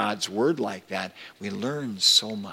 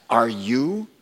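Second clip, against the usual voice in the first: mocking; 7 semitones higher, 9 dB louder than usual. Preacher voicing the criminal jeering at Jesus, rising mockery. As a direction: taunt rising higher and louder to the end. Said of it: "he mocked".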